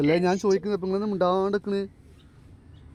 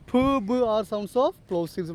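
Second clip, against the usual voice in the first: slow dictation; 4 semitones higher, much slower than usual. Shown as a demonstration. Teacher dictates definition to class.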